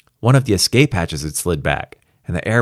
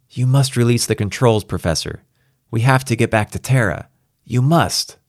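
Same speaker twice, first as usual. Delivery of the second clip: raised, pressing plea; insistent Kramer; 5 semitones higher than usual. Acted. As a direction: urge him, leaning on each demand. Kramer urges the Professor.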